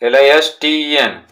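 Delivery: each letter said slowly and apart; spelling letter by letter. Shown as a demonstration. Teacher spelling a word to pupils, slow and clear. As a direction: spell out L-I-S-T-E-N for the class. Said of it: "लिसन means होता है सुनना".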